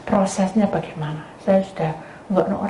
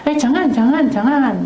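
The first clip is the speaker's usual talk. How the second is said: urgent warning; 6 semitones higher, 4 dB louder than usual. Retold or imitated. Scolding maid, stopping husband.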